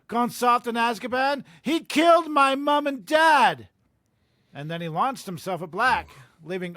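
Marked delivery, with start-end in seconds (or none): 0.1-3.7 angry accusation building to a high, loud yell; verbal assault. Acted. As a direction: hurl the accusation, rising to a shout. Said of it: "launched his own verbal assault".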